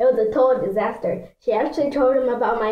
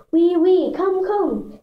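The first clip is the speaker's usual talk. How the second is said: fake French salon owner; 5 semitones higher, slower than usual. A narrator's reading. Little sister pushes her customer along, high fake French urging. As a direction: usher them in with mock French eagerness.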